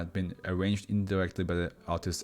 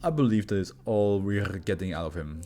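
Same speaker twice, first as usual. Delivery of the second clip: formal doctor character. Acted. Doctor closes the session.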